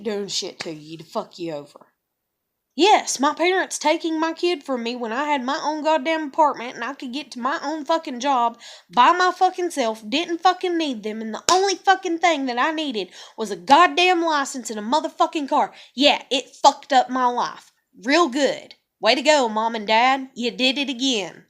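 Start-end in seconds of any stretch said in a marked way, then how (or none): 2.8-15.7 real angry rant. Real, not acted. Raging at parents taking kid. 15.9-21.4 bitter sarcasm. Real, not acted. Sarcastic jab at parents.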